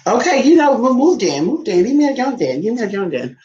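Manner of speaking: squeaky voicing of the dog; high loud pet voice. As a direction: speak as the sulky dog.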